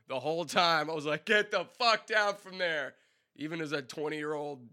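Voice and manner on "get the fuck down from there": loud, high, slowed demand; slow angry shout. Retold or imitated. Yelling at the singer to climb down, slow and loud. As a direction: bark each word up at him.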